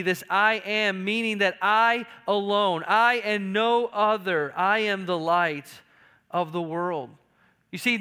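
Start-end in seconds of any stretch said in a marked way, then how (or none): 0.3-5.7 "I" stressed and stretched in "I alone, I and no other"; emphatic claim. Retold or imitated. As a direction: press hard on each "I", slowly and firmly. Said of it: "uses this emphatic ego eimi".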